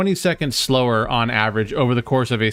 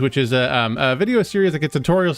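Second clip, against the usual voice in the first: YouTuber voice; 3 semitones higher than usual. Pretend. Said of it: "we're gonna put on our YouTuber voice".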